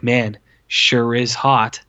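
very slow, lazy mock delivery; mocking a soldier's dull small talk, very slow; mock drawl. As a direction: stretch every word out to ridicule it. Mocking movie dialogue.

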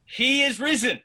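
high, loud call to the congregation; rousing shout. Shown as a demonstration. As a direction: shout it out so every home joins in. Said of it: "I want you to shout it even louder this time".

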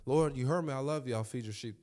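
a hint of irritation, insisting; mildly annoyed repeat; slightly impatient Peter. Peter answering Jesus a second time, a touch impatient. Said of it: "Second time".

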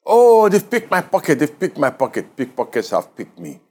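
high-pitched cry of dismay, easing off; mock scream. Preacher retelling a robbed pilgrim's outcry, mock screaming. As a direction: imitate a panicked outcry, starting high and falling away. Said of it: "heard from him was screaming".

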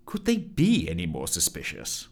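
mildly sarcastic inner aside; sarcastic thought. Acted. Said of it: "thought to herself sarcastically".

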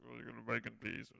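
low, hushed mock request under the breath; murmured under the breath. Tourist mutters a cheeky joke to the waiter, hushed. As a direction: mutter it so the waiter can't hear. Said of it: "murmuring it under our breaths".

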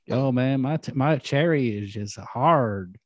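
slowed mock West Texas twang; Brittany Murphy. Defending the actress impression to friends, West Texas twang. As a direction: drag out a West Texas accent. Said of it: "talking like that".

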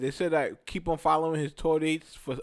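talking while eating candy; words round a mouthful of Pez; mouth full. Real, not acted. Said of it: "What's up with that lisp?".

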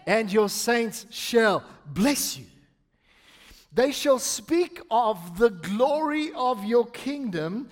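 slow, weighted psalm reading; emphatic scripture reading. Acted. Pastor reading the psalm to the church, slow and emphatic. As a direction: draw out the key words deliberately. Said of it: "read it with emphasis on different things".

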